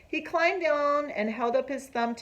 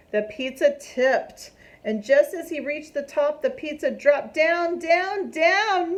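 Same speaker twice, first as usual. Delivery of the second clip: climbing higher and louder with each down; rising suspense; 7 semitones higher, 6 dB louder than usual. A narrator's reading. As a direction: build the tension as it falls. Pizza falling, rising drama.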